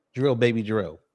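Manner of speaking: usual speaking voice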